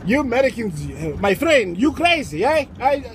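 teasing, lightly put-on Mexican accent; amused Mexican-accented disbelief. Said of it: "the Mexicans are like".

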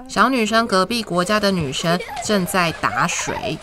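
gentle storytime voice, clear and even; reading to a toddler. Acted. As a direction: read it like a bedtime picture book. Reads picture book to children.

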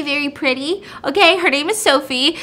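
plain reading voice

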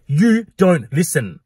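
slow, drawn-out jab at the barmaid; mimicking rude customer. Customer mocking barmaid, slow drawn-out jab. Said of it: "he was like".

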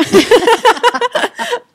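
loud, high burst of laughter; hearty laugh. Real, not acted. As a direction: laugh out loud at a tricky question. Laughs at a difficult question. (gargalhada alta e aguda)

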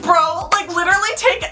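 desperate to make the customer leave; exasperated pleading. Retold or imitated. Scared teen inner reaction.

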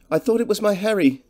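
humble woman's voice, pitched well up; humbly fretful woman. A narrator's reading. Cottage woman startled by a stranger at her door, humbly fretful. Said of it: "She spoke in a humbly fretful voice".

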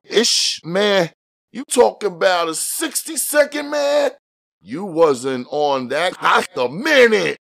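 high, pleading street voice; begging. A narrator's reading. Jimmy begging his partner, high and pleading. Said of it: "he begged".

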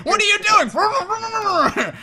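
high, slow, shrieking cry; panicked shout. Retold or imitated. Acting out a panicked teammate.

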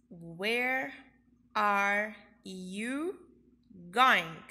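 slow, careful English question with a rising tune on you; teacher modelling a question; question intonation. Shown as a demonstration. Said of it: "falar com um som de interrogação".

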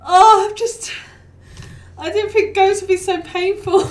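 high, helpless laughing through the words; real laughter breaking up the talk; crying with laughter. Real, not acted. Streamer laughing to chat at the painful ghosts, giggling. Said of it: "I'm crying and laughing".

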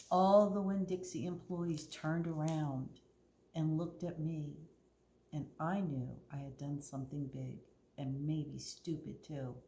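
clear, lively storytime reading voice; story narration. A narrator's reading. Librarian reads Winn-Dixie to the kids, storytelling. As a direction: read the story to the children.

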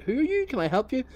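high, politely puzzled question; puzzled homeowner. Retold or imitated. Homeowner questioning the stranger in his driveway, mock polite. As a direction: play the confused owner meeting a stranger. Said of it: "starts saying".

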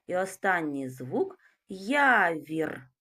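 slow, drawn-out "Явір" with the sound being counted stretched; sound-by-sound articulation. Shown as a demonstration. Teacher stretching the word for sound analysis, slow. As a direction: draw out "Явір" slowly so each sound is heard. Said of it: "Перший звук Й".

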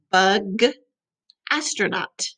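"Bug, astronaut" said clearly for the class; model words. Shown as a demonstration. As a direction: say it for kids to repeat. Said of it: "Can you say it?".

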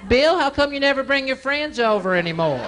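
high nagging mother voice; imitating a nagging mom. Mom voiced in stand-up bit.

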